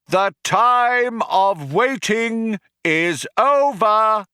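high, loud, slow proclamation; crying out to crowd. A narrator's reading. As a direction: boom it out like a rally speaker. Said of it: "he cried out".

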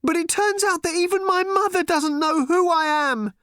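put-on a girl's voice pleading in despair; crying teenage girl. A narrator's reading. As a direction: cry it out as the lost daughter. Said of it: "she cried".

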